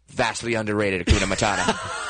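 a hint of Jack Black savoring the moment; Jack Black impression. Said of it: "my impression of Jack Black".

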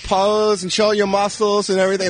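put-on high, camp Austrian accent. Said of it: "doing his gay Austrian accent".

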